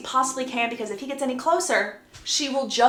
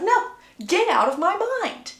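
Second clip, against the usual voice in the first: higher-pitched mock indignation; indignant retort; 8 semitones higher than usual. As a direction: throw the demand back, pitched up. Acted quarrel, Jacob snaps back.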